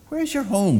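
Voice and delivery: shrill crow question, high up; old crow voice. A narrator's reading.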